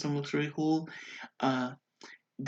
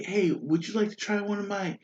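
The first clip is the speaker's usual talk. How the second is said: cabbage merchant; 7 semitones higher than usual. Retold or imitated. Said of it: "he was like".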